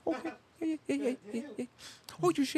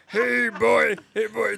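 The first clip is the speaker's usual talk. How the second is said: calling out; slower than usual. Pretend. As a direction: holler at him like a dog. Calling out teasingly.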